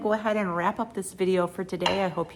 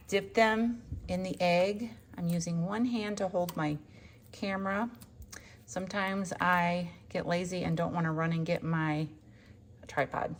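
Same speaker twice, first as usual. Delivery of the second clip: talking while catching breath; breathy, winded from stepping outside. Real, not acted. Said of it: "If I sound out of breath, I am".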